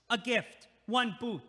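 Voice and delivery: slow, loud, menacing; menacing threat. Real, not acted. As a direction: spell out the threat slowly.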